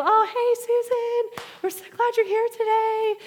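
high, sing-song greeting host; mock gushing welcome. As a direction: gush a fake-cheerful hello. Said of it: "you think that they're gonna come out, greet you".

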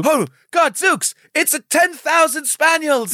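high, astonished cry; hammed-up startled lookout; mock alarm. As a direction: sound the alarm in comic horror. Comic alarm at advancing dogs.

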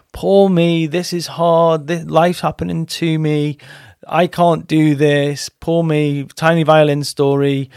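slow, mock self-pitying whine; whiny victim. Coach mimicking someone who shows up as the victim, mock whiny self-pity. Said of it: "We show up as the victim".

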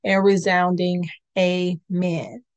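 smooth, measured host welcome over music; podcast intro read. Acted. Host welcoming listeners to the church podcast, polished announcer read. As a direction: ease listeners into the show like an announcer.

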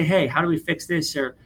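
calm suggestion. Pretend. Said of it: "if you can calmly say".

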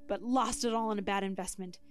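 lightly dramatic storyteller; spooky story narration. Acted. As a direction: tell it like a campfire tale. Reads spooky story with music.

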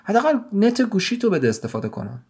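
a sudden outburst pitched high; boy suddenly raising his voice to his father; sudden loud plea. Acted. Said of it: "یه دفعه بلند گفت".

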